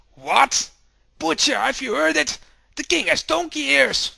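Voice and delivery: high, loud, gossiping townsperson; excited gossip. Acted. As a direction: spread the news loudly and eagerly. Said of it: "And they all go like".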